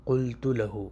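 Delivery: قلت لہو said slowly with a full qaf and every vowel; classical Arabic. Shown as a demonstration. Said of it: "فصیح".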